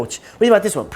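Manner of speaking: put-on chatty question; imitating yapping girlfriend. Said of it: "She's yapping to me".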